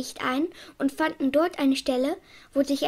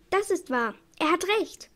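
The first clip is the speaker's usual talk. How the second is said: eager call; 4 semitones higher than usual. Acted. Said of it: "rief Chichi".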